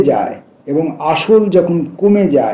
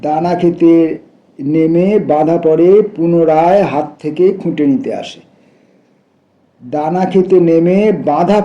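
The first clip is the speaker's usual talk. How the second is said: measured, raised poem-reading voice; poetry recitation. Acted. Reader sharing a poem about foolish birds, recitation. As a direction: recite in sustained, shaped phrases.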